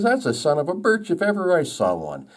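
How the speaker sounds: high-pitched insistent birch tree; mock arguing. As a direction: insist high, as a squabbling joke character. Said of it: "they argued back and forth".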